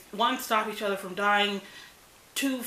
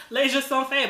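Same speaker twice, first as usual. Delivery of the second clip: reading the title through a laugh; 6 semitones higher, 4 dB louder than usual. Real, not acted. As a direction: laugh while saying 'Les Jeux Sont Faits'. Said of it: "well, that's upside down".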